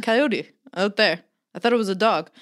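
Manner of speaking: lightly voiced old German neighbor; attempted German accent. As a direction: have a rough go at a German accent. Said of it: "his accent".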